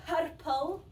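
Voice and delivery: "Purple" with the R's rolled hard; Scottish rolled R. Shown as a demonstration. Correcting the English learner, Scottish rolled-R "Purple". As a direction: roll the R in "Purple", rising at the end. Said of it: "Put on a Scottish accent".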